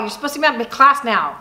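ordinary talk, nothing marked

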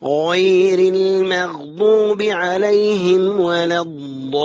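slow sustained tajweed chant; Quran recitation. Shown as a demonstration. Teacher models verse for students, slow tajweed chant. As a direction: recite slowly with long held vowels.

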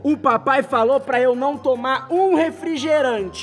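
ordinary talk

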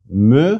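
"Myrios" broken into separate syllables with pauses. Shown as a demonstration. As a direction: sound out "Myrios" slowly, one syllable at a time. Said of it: "Each consonant is pronounced ... a separate syllable".

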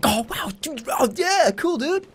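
high, squeaky fake excitement; mock awkward enthusiasm. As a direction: play it overeager and nervous. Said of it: "And I'd be like".

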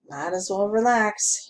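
wheezy, friendly lawman; wheezing. Acted. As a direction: wheeze it out, companionable. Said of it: "he wheezed, suddenly companionable".

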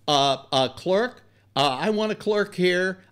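loud, high call across the store; calling out for a clerk. Retold or imitated.

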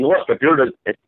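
mock him, get us down; lightly voiced jeering criminal. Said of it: "he's mocking him".

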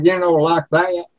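Southern twang with stretched vowels; Southern drawl. Shown as a demonstration. Showing the host the country-music accent, Southern drawl. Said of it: "it's got a drawl".

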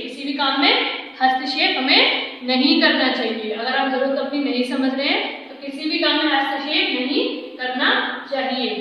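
ordinary talk

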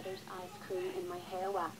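tearful repeat, slightly hushed; upset doll repeating her complaint; crying over ice cream. Acted. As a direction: say it again, still near tears. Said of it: "why are you crying".

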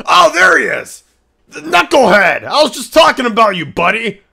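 high, loud, delighted greeting of a viewer; excited greeting. Acted. Greeting a chatter he was just talking about, delighted and loud. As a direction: whoop hello to an old buddy in chat.

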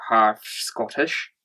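slow, terrible attempt at a Scottish accent; bad Scottish accent. Boyfriend tries a Scottish accent for his girlfriend, slow and terrible Scottish. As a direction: drag it out in a poor Scottish accent. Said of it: "That was a terrible accent".

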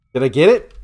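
loud frightened yelp; startled scream. Real, not acted. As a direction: jump out of your skin. Horror game jump scare.

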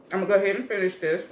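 talking while chewing; mouth full. Real, not acted. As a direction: talk through a mouthful. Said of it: "trying to talk with your mouth full".

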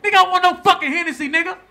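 loud, fast, high refusal; angry refusal. Retold or imitated. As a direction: bark a no at the promoter.

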